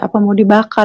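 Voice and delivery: ordinary talk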